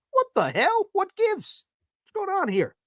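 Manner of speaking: high squealing fake indignation; mock outrage. Host recalling his reaction to fiance, high mock outrage.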